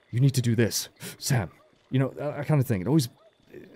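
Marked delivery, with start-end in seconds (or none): 0.1-1.5 imitating Lambert's gasp. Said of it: "He always inhales very sharply before he talks".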